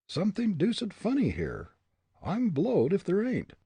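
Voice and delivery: put-on musing young man; soliloquy. A narrator's reading. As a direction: puzzle it out to yourself. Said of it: "he soliloquized".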